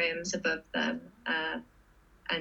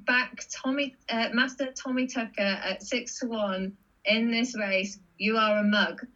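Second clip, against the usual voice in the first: mock tweet voice; 3 semitones higher than usual. Quoting a mocking tweet.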